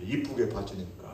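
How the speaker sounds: "이쁘게 봐주니까" repeated softly, trailing off; soft echo. Shown as a demonstration. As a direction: echo the phrase quietly to yourself.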